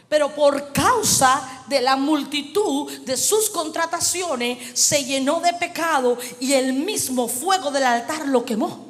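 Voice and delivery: emphatic preaching with drawn-out key words; prédica enfática. Real, not acted. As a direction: drive the point home like a preacher. Predica con énfasis. (prédica enfática, alargando palabras clave)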